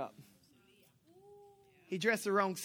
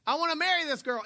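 eager demand; 7 semitones higher, 5 dB louder than usual. Retold or imitated. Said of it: "and said".

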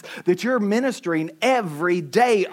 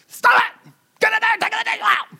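much higher, clipped-back shout held under the mic; a dad snapping at kids, held back; restrained mock yell; 12 semitones higher than usual. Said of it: "I won't yell 'cause I'm on the mic".

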